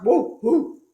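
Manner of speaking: two loud woofs; dog barking. A narrator's reading. Dog daunted by the sneeze, loud barks. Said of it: "who barked".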